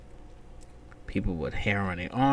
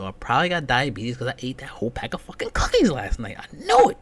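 builds into a high, loud squeal on the end; rising mock panic that cracks high; panicked confession; 4 semitones higher, 5 dB louder than usual. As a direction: spiral up to a yelp of certainty. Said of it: "I'm like".

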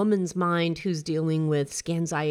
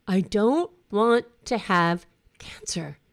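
slow, voiceless whisper; whispered despair; 4 dB louder, slower than usual. Retold or imitated. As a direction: breathe it out as a whisper. Venting alone in her car.

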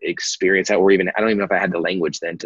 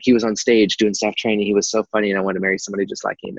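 put-on Southern accent. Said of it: "my wife doesn't also talk like that".

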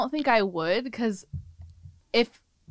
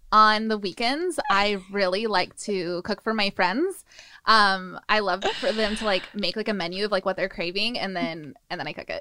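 put-on Valley Girl voice. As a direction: play a laid-back Valley Girl. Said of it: "in a Valley Girl voice".

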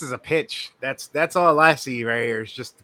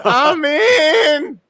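higher, eager, all in; eager, louder; 13 semitones higher, 10 dB louder than usual. Retold or imitated. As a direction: jump at it for real. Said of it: "I'm like".

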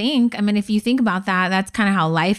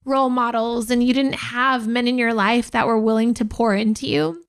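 crying while praising her husband; tearful; 3 semitones higher than usual. Real, not acted. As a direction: speak through real tears of pride. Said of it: "'cause I'm crying".

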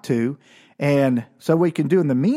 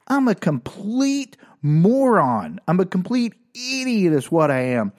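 COMPLETE and MORON stretched out slowly, higher pitch; rueful self-mockery; 4 semitones higher than usual. Boy realizes his mistake, "complete moron" drawn out in self-mockery.

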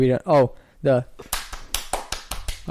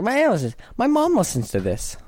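panicked inner thought; 8 semitones higher than usual. Retold or imitated. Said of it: "And I was like".

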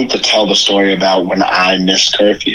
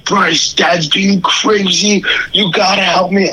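put-on high, slow, hushed kid-brother whisper; panicked whisper; 9 semitones higher, slower than usual. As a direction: whisper it like a frightened little brother calling for help. Brother imitates panicked younger brother.

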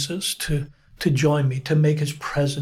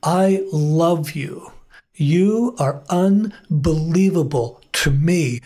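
tender; slower than usual. Retold or imitated. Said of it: "Jesus' voice spoke so deeply".

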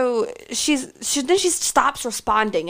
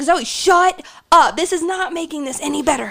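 put-on telling a drunk friend to shut up; retold scolding; 4 semitones higher, 4 dB louder than usual. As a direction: snap at her to shut up. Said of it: "you were screaming at the cops".

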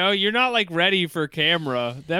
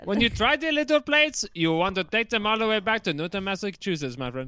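mock Boston accent; 3 semitones higher, faster than usual.

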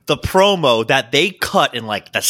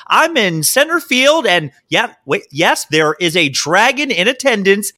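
perky field reporter; 3 semitones higher than usual. Retold or imitated. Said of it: "She's like".

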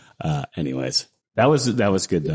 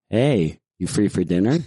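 lightly voiced actress impression; a hint of a film star casually asking someone out; understated celebrity impression; Emma Stone; 2 semitones lower than usual. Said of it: "Emma Stone".

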